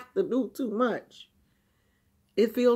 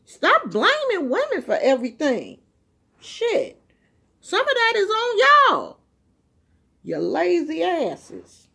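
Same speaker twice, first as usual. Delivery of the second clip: getting mad; 8 semitones higher, 4 dB louder than usual. Real, not acted. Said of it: "I'm getting mad".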